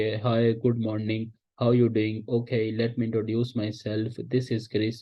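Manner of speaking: stiff, rote-read greeting; recited lesson. Shown as a demonstration. Teacher mocks a stiff, rote cold-call greeting. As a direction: say it like reading a memorised lesson. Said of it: "जैसे आप कोई सबक पढ़ के सुना रहे हैं".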